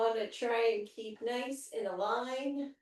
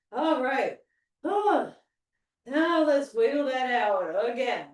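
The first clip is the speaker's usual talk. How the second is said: excited coach; 7 dB louder than usual. Real, not acted. Cheering after finishing set.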